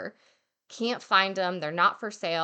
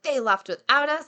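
retold fury; 6 semitones higher, 4 dB louder than usual. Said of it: "furious at this point".

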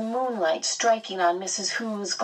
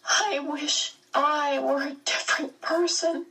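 shaky; 9 semitones higher than usual. Acted. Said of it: "Meg said shakily".

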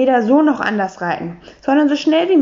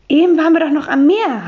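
mild stammering; 5 semitones higher, 4 dB louder than usual. Acted. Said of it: "hat Hugo gestottert".

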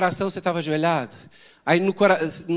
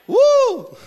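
high ecstatic whoop; 8 dB louder than usual. Pretend. Demonstrates fan-like worshipper.

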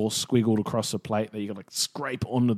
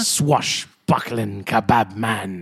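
pirate voice; 4 dB louder than usual. Pretend. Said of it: "talk like a pirate".

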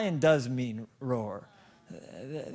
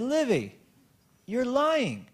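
stern father call; 9 semitones higher, slower than usual. Retold or imitated. Father confronting lying toddler.

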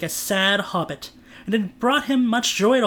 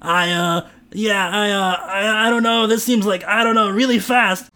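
flustered; 2 semitones higher, 4 dB louder than usual. Acted. Trent flustered.

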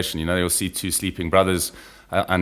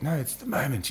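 softer, hushed mock reply; imitated whisper; 7 semitones higher, 8 dB quieter than usual. Imitating a team member explaining the whispering, lightly hushed. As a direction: drop the volume as if justifying the whisper. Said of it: "whispering feels like the right thing".

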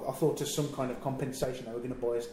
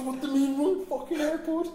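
high-pitched, incredulous outburst; losing his mind; 13 semitones higher, 3 dB louder than usual. Retold or imitated. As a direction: demand an answer in retold outrage. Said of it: "just lose my mind".

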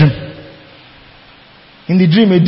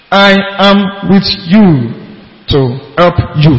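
mock movie Jesus; 3 semitones lower than usual. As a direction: ham up a weak movie Jesus. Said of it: "Jesus didn't speak like that".

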